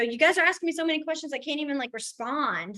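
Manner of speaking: mock overwhelmed teacher. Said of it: "I'll look at them and go".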